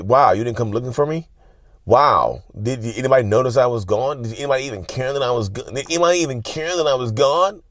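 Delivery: a touch of mock indignation; mock hurt complaint. Acting out the neglected partner's complaint.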